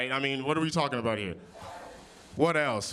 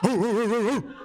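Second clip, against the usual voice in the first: hype call; 8 semitones higher, 5 dB louder than usual. Real, not acted. Hyping the crowd, calling out.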